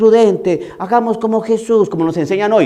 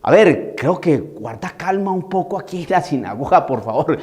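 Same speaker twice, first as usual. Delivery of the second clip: soft, lower, meek negotiating voice; mock timid pleading; 4 semitones lower, 5 dB quieter than usual. Timid priest pleads with the possessed man, soft meek voice. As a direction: caricature a weak priest asking nicely. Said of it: "Estoy caricaturizando".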